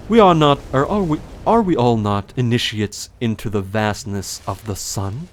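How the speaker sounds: grand, theatrical knight voice; Solaire. Shown as a demonstration. Streamer shows an audiobook voice for a knight, theatrical. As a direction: declaim it with wonder, falling away at the end. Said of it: "I would read his voice more like".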